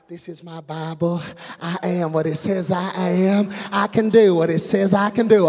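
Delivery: calm preacher. Shown as a demonstration. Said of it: "they just kinda calmly say".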